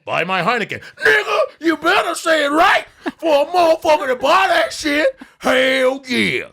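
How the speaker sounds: over-the-top stereotype ad read. Acted. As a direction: parody a pushy beer commercial voice. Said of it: "to do the black thing".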